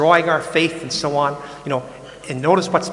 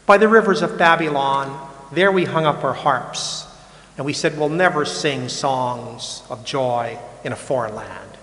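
psalm recitation. Acted.

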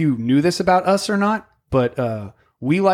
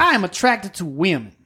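lightly caricatured Southern senator, higher pitch; Lindsey Graham; 4 semitones higher than usual. Acted. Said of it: "he talks like this".

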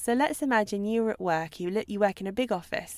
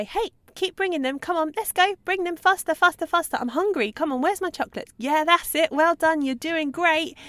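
high, eager nonstop coaxing of a coworker; hammed-up cheerleading across the office; mock pushy coworker hurrying a colleague with chocolates; babbling colleague; 6 semitones higher, 3 dB louder than usual. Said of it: "you say".

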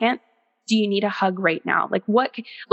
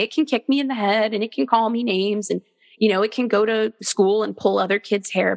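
mock permissive parent. Mocking a permissive parent excusing a tantrum, gushing. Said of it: "I would never say".

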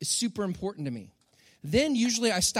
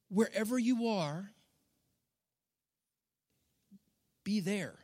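soft Jesus quote; 5 dB quieter than usual. Retold or imitated. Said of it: "Maybe he would say".

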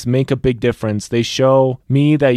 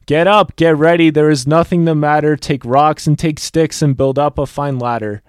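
louder, higher call down into the holes; 3 semitones higher, 4 dB louder than usual. Acted. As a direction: shout encouragement down to those below. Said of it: "calling down to the holes".

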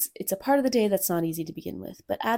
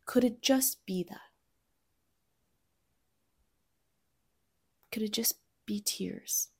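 whispered question; 2 semitones higher than usual. Real, not acted. Gentle rhetorical question to listener.

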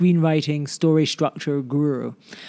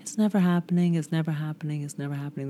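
fading repetition; 5 dB quieter, faster than usual. Acted. Repeats phrase, fading each time.

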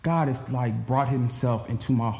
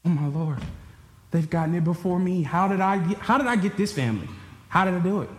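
amazed; 6 semitones higher than usual. Real, not acted. Overwhelmed by his family.

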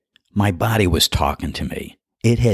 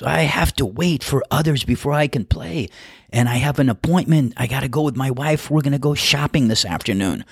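put-on higher voice with a Spanish accent; Spanish-accented golfer explaining he must leave, pitched up; 8 semitones higher than usual. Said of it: "speaking with a Spanish accent".

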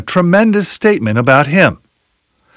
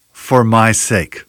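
slow, weighty "For my sake"; "For my sake" slowed right down and stressed; emphatic slow; 5 semitones lower, much slower than usual. Acted. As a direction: lean hard on "For my sake", word by word. Contrast with "name of God.

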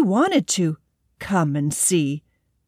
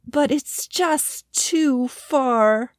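little squirrel voice; 6 semitones higher, much slower than usual. Acted. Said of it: "said the squirrel".

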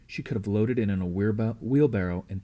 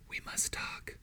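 breathy urgent whisper, barely there; 13 dB quieter, slower than usual. A narrator's reading. Morse pulls her aside secretly: hushed whisper. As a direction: lean close and whisper it. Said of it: "I could hear him whisper".

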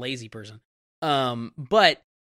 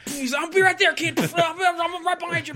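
lazy brush-off; 13 semitones higher, 3 dB louder than usual. Retold or imitated. Peter mocking, lazy mentor.

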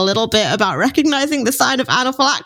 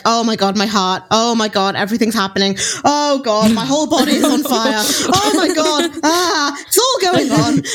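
mock panic, climbing higher as it builds; retold adrenaline panic; 4 semitones higher than usual. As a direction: act out an adrenaline rush, building to a high-pitched frenzy. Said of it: "And then I was like".

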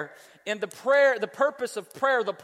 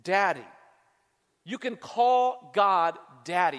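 tender emphasis; 3 semitones lower, slower than usual. Real, not acted. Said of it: "it actually means you can call him Dad".

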